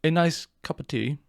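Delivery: attempted British accent on a teatime phrase; bad British impression; failed British accent. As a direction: try British and fall short. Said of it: "as close to British as I'll ever fail to get".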